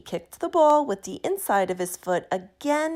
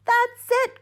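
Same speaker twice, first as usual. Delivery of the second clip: much higher, louder sudden idea; excited cry; 14 semitones higher, 5 dB louder than usual. A narrator's reading. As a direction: burst out with the discovery. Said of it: "cried Franklin".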